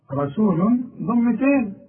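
رسول slowly with a nasal un at the end; tanween shown. Shown as a demonstration. Teacher showing the tanween. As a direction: draw out the un of رسول. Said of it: "عشان الضمة الأولى".

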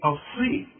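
الصين with a heavy emphatic s; heavy sad. Shown as a demonstration. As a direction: thicken the s in الصين. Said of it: "إذا هتقول إيه؟". (الصين بصاد مفخمة)

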